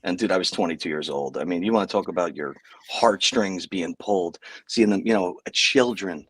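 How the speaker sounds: talking around a lollipop; sucking a lollipop. Real, not acted. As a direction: lollipop in mouth while speaking. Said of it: "I got a lollipop. Let me put that down".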